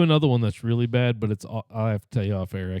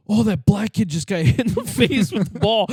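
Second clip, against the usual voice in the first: mom's blunt remark; 9 semitones higher, 3 dB louder than usual. Retold or imitated. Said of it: "My mom goes".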